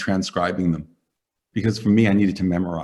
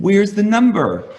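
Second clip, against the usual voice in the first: retold demand; 11 semitones higher, 6 dB louder, slower than usual. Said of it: "And I said".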